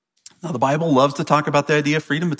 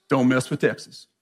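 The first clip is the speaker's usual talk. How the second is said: put-on cowboy accent. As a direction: give it your best cowboy accent. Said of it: "that's my best cowboy".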